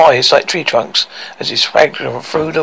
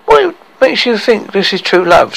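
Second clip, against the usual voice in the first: shouting; 6 semitones higher than usual. Acted. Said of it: "shouted Lily".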